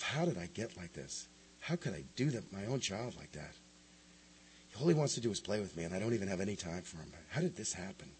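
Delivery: a guilty father asking himself how he got here; despondent inner voice. Retold or imitated.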